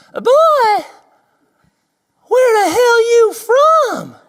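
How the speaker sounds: high, slow, drawling redneck shout; hick attendant. Retold or imitated. Gas attendant shouts at the Aussie visitor, high hick yell. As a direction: ham up a yelling Southern gas attendant.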